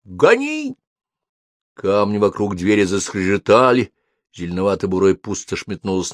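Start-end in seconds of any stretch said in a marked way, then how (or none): 0.1-0.8 panicked shout. A narrator's reading. Panicked order to flee.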